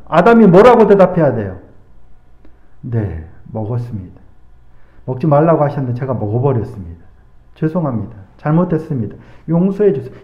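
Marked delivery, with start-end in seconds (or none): 2.8-10.1 low, soft, contrite plea for forgiveness; bow your head and murmur the apology; hushed, penitent admission of guilt; humble confession. Acted. Adam's ideal humble confession.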